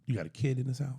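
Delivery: hushed teasing whisper. Real, not acted. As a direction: lean in and whisper the question. Teasing secret question, whispered.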